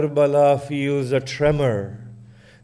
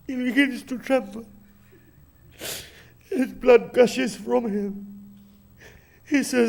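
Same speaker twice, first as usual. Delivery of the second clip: grieving sermon narration, rising and falling in waves; mournful recitation. Acted. Preacher recounting Hussein's death to mourners in lamenting recitation. Majlis recitation of Karbala martyrdom.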